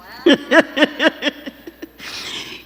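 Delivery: high, breathless laugh; laughter. Real, not acted. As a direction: burst of real giggling. Laughs after the sweet answer.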